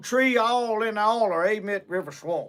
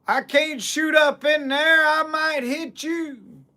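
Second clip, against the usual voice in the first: calling up; 5 semitones higher than usual. Retold or imitated. Mister Barron calling up to John, high worried holler. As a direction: shout up a worried refusal.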